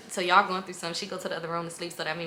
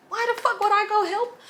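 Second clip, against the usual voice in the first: high, loud exasperated outburst; outraged; 7 dB louder than usual. Real, not acted. She rants to her viewers about the man, high loud outrage. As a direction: throw the question up in disbelief. Ranting about helping him.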